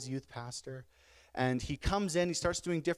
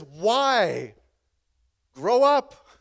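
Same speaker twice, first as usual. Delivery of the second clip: loud mock yell of a fed-up wife; big, punchy imitation of scolding; exasperated retort; 5 semitones higher, 9 dB louder, much slower than usual. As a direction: shout it back in the acted quarrel. Wife's retort in acted quarrel.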